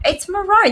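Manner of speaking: "maroon" said muh-RONE, high; maroon with a long "o", pitched high; insisted pronunciation. Shown as a demonstration. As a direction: say maroon rhyming with bone, emphatic. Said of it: "not how you spell maroon".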